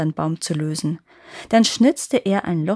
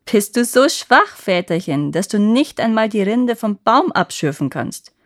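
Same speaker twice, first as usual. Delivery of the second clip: mocking taunt; 2 semitones higher, 5 dB louder than usual. Boy mocks the giant.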